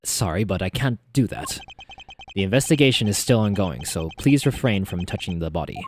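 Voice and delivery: put-on low, lightly British-accented refusal; British-accented Edgeworth. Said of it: "continue with the British accent".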